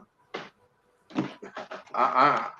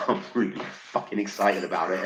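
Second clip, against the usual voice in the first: giggling through the words, low and excited; laughing excitedly; 5 semitones lower than usual. Real, not acted. Telling his podcast host about the donation, laughing with excitement. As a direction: let the laugh break into the excitement. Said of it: "I don't know if you can tell".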